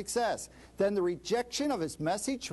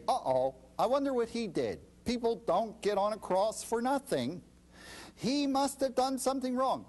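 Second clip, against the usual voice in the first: higher, knowing gossip voice; smug suspicion; 5 semitones higher than usual. Retold or imitated. Preacher imitating onlookers judging the crucified servant, smug suspicion. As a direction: lightly mimic a self-righteous onlooker. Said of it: "We said".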